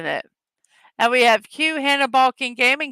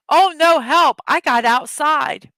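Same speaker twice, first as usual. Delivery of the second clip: mock panic; 5 semitones higher, 5 dB louder than usual. Reading a cat meme aloud.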